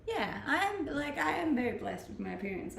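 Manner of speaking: ordinary delivery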